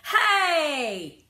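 sudden high shout; child's indignant shout. A narrator's reading. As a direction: yell it out to stop him. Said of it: "I would shout".

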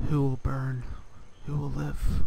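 loud, portentous questions; dramatic teaser. Pretend. Player teasing viewers about the next episode, loud and dramatic. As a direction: punch each question out loudly for drama.

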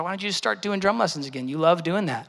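softly voiced, sweet wifely nudge; gentle imitation of a sweet wife; sweet suggestion. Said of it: "my wife sweetly leans over".

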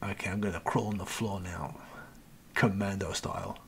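breathy sneaking whisper. Real, not acted. Gamer crawling past enemies, whispering to viewers. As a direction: whisper it as if the enemy could hear. Crawling stealthily in enemy base.

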